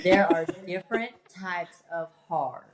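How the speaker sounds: "There are different types of hard" repeated through a laugh; playful laughing retake of "There are different types of hard". Shown as a demonstration. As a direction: give the line again, amused at being asked.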